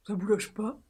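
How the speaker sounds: soft, dopey little voice; goofy put-on dumb voice; silly dopey voice. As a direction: say it like a dummy, quietly. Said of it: "une voix de moins de débile".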